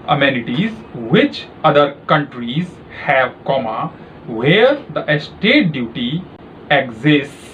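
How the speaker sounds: slow, clearly spaced dictation voice; dictating a passage for a shorthand test; slow dictation read. Shown as a demonstration. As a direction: read each phrase out slowly for typing practice. Dictation reading to typists.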